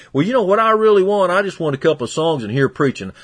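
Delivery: a hint of a whiny parishioner; mildly mocking a member who only wants preaching; mock complaining member. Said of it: "people come to me and tell me".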